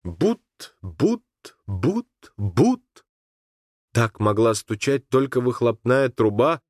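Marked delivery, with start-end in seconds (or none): 0.0-2.8 engine putt-putt. A narrator's reading. Narrator imitating the distant boat engine, steady putt-putt. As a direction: tap out the motor beat.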